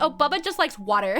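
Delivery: mild teasing, said with a laugh; teasing like it's weird. Retold or imitated. Friend teasing about only liking water, laughing tease. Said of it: "But the way she said it".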